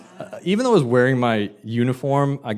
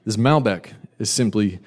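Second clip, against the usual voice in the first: smooth salesman; 4 semitones lower than usual. Retold or imitated. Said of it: "And I said".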